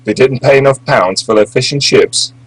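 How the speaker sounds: lightly mocking British lawyer's accent.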